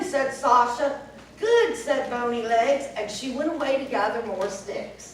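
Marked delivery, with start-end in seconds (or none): 1.4-1.8 high, loud cackly witch. Acted. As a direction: bark a pleased witch's word. Witch pleased.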